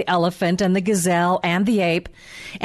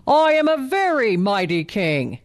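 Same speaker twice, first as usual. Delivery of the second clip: proud lion. Acted. Lion repeats his boast.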